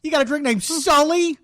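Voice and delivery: high-pitched joking radio host; car radio host. Acted. Car show host telling a caller a joke, high hammy voice. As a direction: play the jokey call-in car show host.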